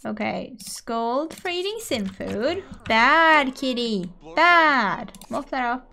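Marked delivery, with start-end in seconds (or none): 2.9-5.1 slow, loud bad kitty; mock scolding. Player scolds the cat on the table, slow and loud. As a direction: scold the cat like a pet owner.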